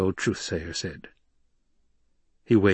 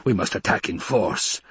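a touch of a rasp; lightly rasped villain voice; rasping Baron. Acted. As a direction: rasp it out, urging action. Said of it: "the Baron rasped".

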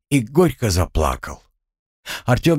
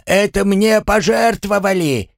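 indignant yell; 12 semitones higher than usual. A narrator's reading. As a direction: shout it, outraged. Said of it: "заорал Гремлун". (возмущённый вопль)

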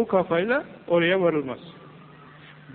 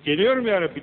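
a touch higher, earnest reply to God's call; mild mock devotion; eager believer's answer; 5 semitones higher, 3 dB louder than usual. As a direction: answer the call gladly, lightly acted.

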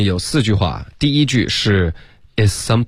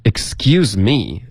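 "Excuse me" drawn out slowly with weight on cuse; stress on USE; much slower than usual. Shown as a demonstration. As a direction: lean on the second syllable of "Excuse". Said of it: "你的use要加重音". (“Excuse me”放慢，use加重音)

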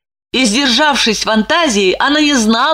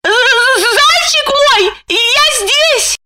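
much higher, slow, stuttering frightened reply; stammering; slower than usual. A narrator's reading. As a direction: stammer out the pet name in panic. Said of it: "заикаясь".

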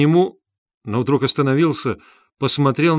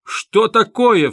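much higher, louder and slow cry of shock; stunned outcry; 9 semitones higher, 4 dB louder, much slower than usual. A narrator's reading. Porfiry hearing the confession, a high stunned outcry. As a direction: burst out, thunderstruck. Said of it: "вскричал Порфирий Петрович".

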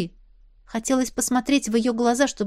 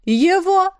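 dramatic exclamation; 9 semitones higher, 6 dB louder than usual. A narrator's reading. Sister points dramatically.

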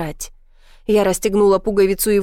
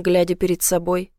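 plain reading voice

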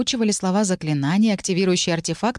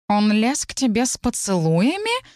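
mild indignant question; a touch of outrage; 4 semitones higher than usual. Acted. Familiar cat Morpheus outraged about kissing, mild indignation. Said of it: "возмутился Морфеус".

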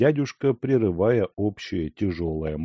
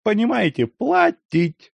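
pained; 12 semitones higher, 5 dB louder than usual. A narrator's reading. Pained continuation.

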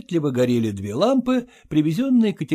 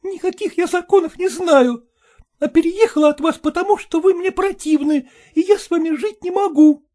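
high, louder indignant wife; voiced wife refusing him; angry wife; 5 dB louder than usual. A narrator's reading. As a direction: spit out her disgust. Wife rejects husband.

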